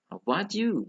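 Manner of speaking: "How about you" high arch, falling at the end; exaggerated model "How about you", high then down; intonation drill. Shown as a demonstration. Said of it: "ada pronunciation and intonation".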